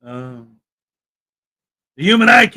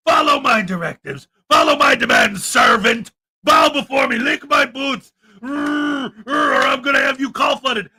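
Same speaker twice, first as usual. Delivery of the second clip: dark lord; 3 semitones higher than usual. Retold or imitated. Mocking self-important auditor as tyrant.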